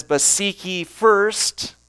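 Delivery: "first" drawn out at the end; slow build to an emphatic "first"; stress on first. Shown as a demonstration. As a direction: land firmly on "first", slowly. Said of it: "the word first".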